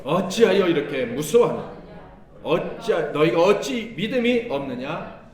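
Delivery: loud, stern rebuke to the disciples. Acted. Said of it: "예수께서 … 이르시되".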